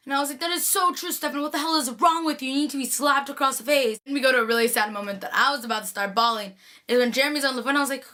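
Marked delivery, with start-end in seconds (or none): 0.4-4.0 mock scolding. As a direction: tell off a character in playful exasperation. Fan scolding a character.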